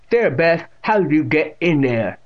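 playful scolding. A narrator's reading. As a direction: scold the cat in mock reproach. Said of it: "in a playfully scolding tone".

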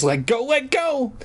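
high-pitched mock shriek. Puppeteer prying the dummy's fingers open, shrieking. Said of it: "I shrieked".

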